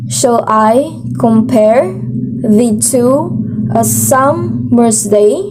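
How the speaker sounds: slow da-dum reading of "Shall I compare the two a summer's day"; iambic reading. Shown as a demonstration. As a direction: read it in steady iambs, weak then strong. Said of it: "here we go".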